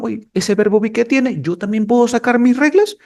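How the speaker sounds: envious rival verb. Acted. Other verbs envying the verb be, mildly indignant. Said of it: "los otros verbos dijeron".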